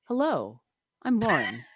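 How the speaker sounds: lightly voiced character greeting; a hint of a put-on character. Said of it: "I have to be in character here".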